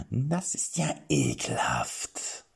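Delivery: slow, drawn-out disgust. Acted. King reacts with disgust to the vomiting knight. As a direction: pull back from the mess in disgust. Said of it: "sagte er angewidert".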